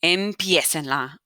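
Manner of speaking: "Empiecenla" with the stress on the E of "pie". Shown as a demonstration. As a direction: lean on the middle E in "Empiecenla". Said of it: "put the accent mark over the E".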